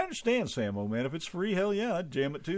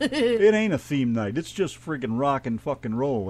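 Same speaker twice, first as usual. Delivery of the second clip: emphatic protest; 4 semitones higher, 4 dB louder than usual. Real, not acted. Mock protest at theme night.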